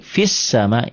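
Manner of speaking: fis sama slowly, fi running into a doubled s; measured fis sama, a and l left silent; linked reading demo. Shown as a demonstration. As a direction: model fis sama for a learner. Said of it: "kedua huruf ini nggak dibaca".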